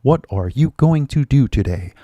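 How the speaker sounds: over-careful, word-by-word textbook reading; textbook English. Acted. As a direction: mimic a stilted English textbook dialogue. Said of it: "You have the textbook and".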